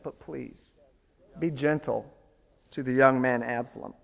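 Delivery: soft, hushed request to spare his son; a father's tender plea to his general; gentle plea. Retold or imitated. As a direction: plead quietly for the boy's life. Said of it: "in a remarkable command to Joab".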